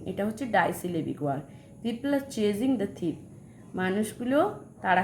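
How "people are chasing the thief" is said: very slow, word by word; slow dictation. Shown as a demonstration. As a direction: read it slowly for the class to copy. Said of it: "example sentence". (ধীরে ধীরে পড়ে শোনানো)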